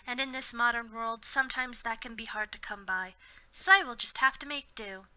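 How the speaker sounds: prim, earnest little reading voice; mock prim author's note. Reading the churchy mom's note aloud to friends, prim and earnest. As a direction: read it like a sweet churchy mom.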